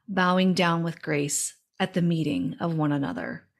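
measured, devotional reading of verse; poem reading. Acted. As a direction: read it like a reverent poem. Reads her written poem aloud.

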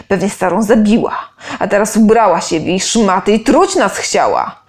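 loud, hostile soldier voice; a brute whipping up the mob; soldier accusing. Acted. Soldier accusing the half-elf before the crowd, loud and hostile.

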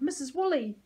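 high-pitched joyful announcement; excited cry. A narrator's reading. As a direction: call the name out with delight. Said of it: "Ulysses cried".

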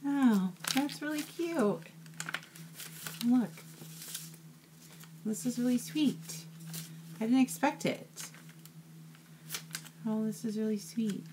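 high, moved voice on the edge of tears; choked up with delight at a surprise gift; touched, near tears. Real, not acted. Opening a handmade mini journal from a friend, teary and high. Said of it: "But you got a whole tear".

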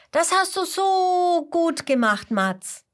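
put-on all the dino kids cheering for Mats; cheering praise. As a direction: cheer him on together. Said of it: "rufen alle Dino-Kinder zusammen".

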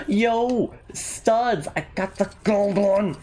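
high-pitched, thrilled exclamation; excited cry. Real, not acted. Player finds gold studs, high excited cry. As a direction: crow over the lucky find. Sudden find in game.

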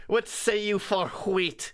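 slow, high archaic creature voice; a grand fairy bargaining; Puka voice. Pretend. Puka voice asking about wheat.

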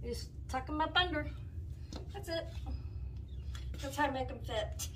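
breathless, wheezing a little; wheezy voice. Real, not acted. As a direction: talk through a wheeze. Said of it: "I'm wheezing".

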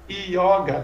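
"Yoga" as i-ó-ga with a hiatus; three syllables, open o. Shown as a demonstration. Teacher showing the other mistake, "Yoga" as i-ó-ga. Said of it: "três sílabas também".

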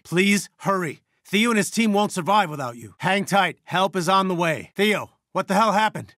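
worried, high-pitched radio pleas; urgent. Acted. Begging help for Theo's exhausted team, urgent.

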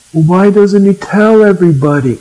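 imitated questioner, high-pitched; insistent questioner. Acts out the person's follow-up question.

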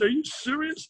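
imitating his own stunned reply; surprised. Telling the host how he reacted to the coach, amazed.

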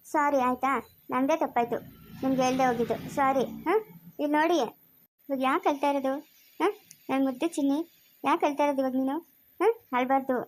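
low, gentle apology; tender soothing. Acted. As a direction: coax someone out of crying. Comforting his crying girlfriend, apologising.

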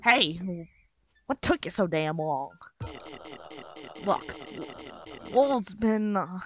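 lightly voiced gruff-talking Southern cook; somewhat Southern accent. Bird complaining to a late helper, somewhat Southern accent. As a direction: give the game character a slight Southern twang. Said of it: "this somewhat southern accent".

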